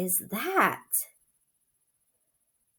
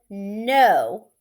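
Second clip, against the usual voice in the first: firm no; 5 dB louder than usual. Acted. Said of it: "Max said".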